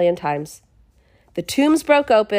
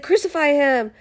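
raised-pitch imitation of a shouting crowd; mock crowd shout; 6 semitones higher than usual. Crowd answering Pilate, mock shout. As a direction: call it out high, without full volume. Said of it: "the people start shouting".

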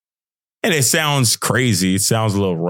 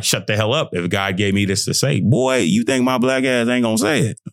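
defiant comeback. Retold or imitated. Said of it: "But I'm like".

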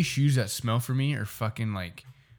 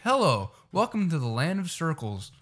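lightly imitated teacher's welcome; mock-welcoming teacher, pitched up; eccentric teacher; 5 semitones higher than usual. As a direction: greet the class in a higher-pitched put-on voice. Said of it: "He's like".

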